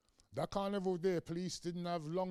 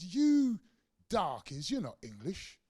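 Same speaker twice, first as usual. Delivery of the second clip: sneering politician; 3 semitones higher, 5 dB louder, slower than usual. Retold or imitated. Tebbit voiced in retelling.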